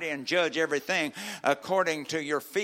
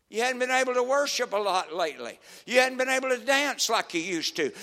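caring preacher to a brother; 10 semitones higher, 11 dB louder than usual. Acted. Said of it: "bring it to him and say".

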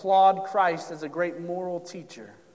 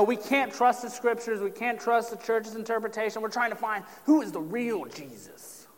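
mocking skeptics; 5 semitones higher than usual. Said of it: "They're trying to say, you know".

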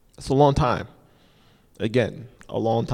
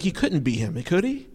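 doubting crowd; 4 semitones higher, 4 dB quieter than usual. Retold or imitated. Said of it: "He's like".

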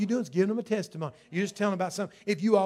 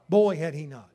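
loud exclaim; 2 semitones lower, 7 dB louder than usual. Real, not acted. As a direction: proclaim it out to the congregation. Loud repeat of quiet line.

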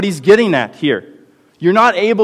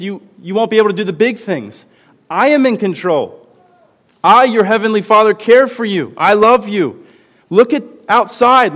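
put-on God reassuring his child; 5 semitones higher than usual. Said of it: "and says".

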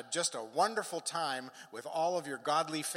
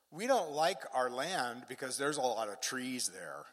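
mock complaint. Tribe complaining to Joshua about their land, mock grumble. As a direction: retell the gripe with comic disdain.

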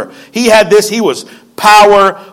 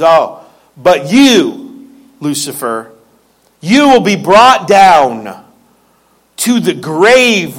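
God's judgment; 3 semitones lower, slower than usual. Acted. Preacher voices God's judgment on Lucifer.

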